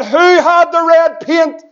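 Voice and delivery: slow, mildly stern retold question; questioning dad. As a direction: act out a dad demanding who did it. Dad questions his guilty boys.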